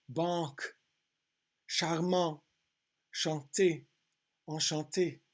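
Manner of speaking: "Banque, charmant, chanter, enchanté" in French, nasal AN; careful French pronunciation demo; phonetic reading. Shown as a demonstration. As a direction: read each French word out separately, nasal AN. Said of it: "We'll read the phonetic".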